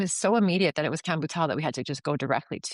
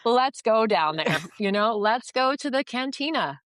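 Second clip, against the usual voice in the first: eager excitement; 6 semitones higher than usual. Retold or imitated. Telling her partner to hurry to the cantina, eagerly excited. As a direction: pitch it like you can't wait to go. Rushing to meet land sellers.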